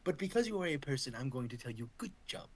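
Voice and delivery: lightly voiced villain's measured compliment; Frieza. Villain complimenting Ginyu, lightly acted and measured. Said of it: "that's from Frieza comment-, uh, complimenting Ginyu".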